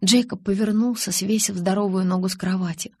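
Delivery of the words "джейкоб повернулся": usual speaking voice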